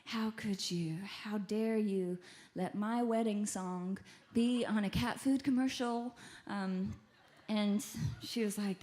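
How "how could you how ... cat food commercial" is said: mild mock indignation, drawn out; retold angry woman. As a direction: imitate an outraged complaint, slowly stressed. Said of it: "this really angry woman saying".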